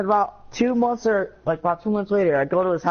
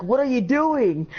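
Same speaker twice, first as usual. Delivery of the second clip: startled question; 6 semitones higher, slower than usual. Retold or imitated. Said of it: "Andre's like".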